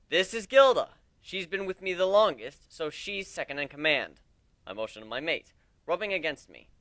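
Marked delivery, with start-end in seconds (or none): 0.1-4.2 addressing a crowd. Acted. Captain introduces crew to recruits.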